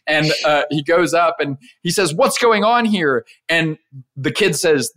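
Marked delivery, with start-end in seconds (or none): 2.1-3.2 high, slow, drawn-out question; playfully acted bewilderment; perplexed dad. Dad comes up to the missing house, perplexed. Dad confronts family in retold story.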